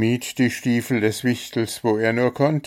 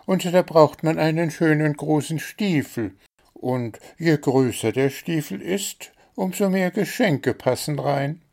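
bunny voice; 8 semitones higher than usual. A narrator's reading. Hase Schnuffi explains.

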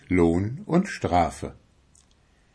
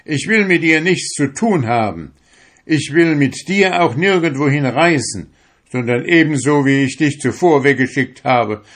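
high, loud, vehement rejection; angry shout; 6 semitones higher, 6 dB louder than usual. A narrator's reading. Fisherman sends his soul away, shouted angry rejection. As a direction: cast them off at a raised pitch. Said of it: "schrie er".

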